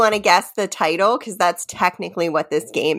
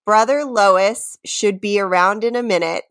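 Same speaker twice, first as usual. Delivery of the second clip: measured recital with pauses between lines; lyric reading. Pretend. Host reads the next quiz lyric, measured recital. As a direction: read the lyrics out deliberately, line by line.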